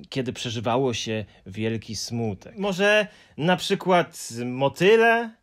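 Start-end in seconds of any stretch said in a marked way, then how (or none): 2.6-5.3 put-on higher, louder boyish voice; suggesting Moomin. A narrator's reading. Moomin proposing butterflies to the Hemulen. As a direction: offer it hopefully. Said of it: "zaproponował Muminek".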